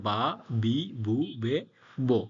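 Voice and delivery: "বা, বি, বু, বে, বো" as separate syllables with voiced b; voiced kana demo. Shown as a demonstration. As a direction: recite "বা, বি, বু, বে, বো" one by one, each starting on b. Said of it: "হা লাইনটা হবে বা লাইনে পরিবর্তন হবে".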